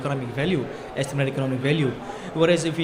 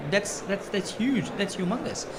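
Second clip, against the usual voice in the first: higher, amazed exclaiming; 7 semitones higher than usual. Real, not acted. Panelist praising a ninety-eight percent success rate, amazed. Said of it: "I was very amazed to see".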